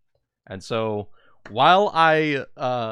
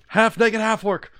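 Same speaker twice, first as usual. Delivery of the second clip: much higher and louder, proclaiming "Half naked, half orc"; dramatic announcement; 10 semitones higher, 7 dB louder than usual. Acted. GM introduces Fang bursting out, in a grand announcing voice. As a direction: announce him like a grand entrance.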